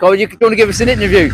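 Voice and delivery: calling out fast over the crowd. Real, not acted. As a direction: push the voice over the street noise. Shouting over street crowd noise.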